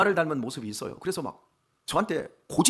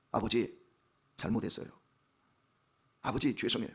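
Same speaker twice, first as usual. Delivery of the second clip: soft, small voice of a sorry daughter; a hushed, half-whispered plea for forgiveness; meek apology; 7 semitones lower, 7 dB quieter than usual. Retold or imitated. Daughter apologizing to her father, meek and hushed.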